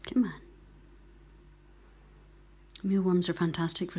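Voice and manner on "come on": gentle cooing whisper. Real, not acted. Rescuer coaxes a goldcrest to take glucose, hushed cooing. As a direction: coo to the bird under your breath. Coaxing bird to eat mealworm.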